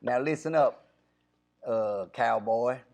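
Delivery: loud, high hammed-up cowboy with a laugh; cowboy character. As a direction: whoop it up like a rodeo cowboy selling an ad. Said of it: "I gotta get into character".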